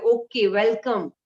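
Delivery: slow, friendly welcome; welcoming. Shown as a demonstration. Teacher demonstrating a greeting that soothes the listener, slow and welcoming. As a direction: put the other person at ease. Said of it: "सामने वाले को भी कहीं ना कहीं अंदर शांति मिलती है".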